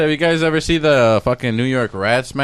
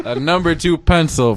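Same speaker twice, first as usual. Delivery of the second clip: laughing through the words; can't hold back the giggle; stifled giggles; 3 semitones higher than usual. Real, not acted. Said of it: "He's trying not to laugh on camera".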